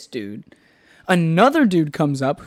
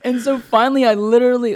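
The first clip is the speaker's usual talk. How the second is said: laughing; 9 semitones higher, 7 dB louder, slower than usual. Real, not acted. Laughing while telling confusion.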